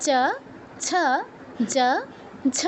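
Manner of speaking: চ, ছ, জ, ঝ each as tongue-on-palate syllables; separated, teacherly চ, ছ, জ, ঝ; palatal demonstration. Shown as a demonstration. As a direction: say চ, ছ, জ, ঝ one by one with short 'uh'. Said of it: "same স্থানে স্পর্শ করে".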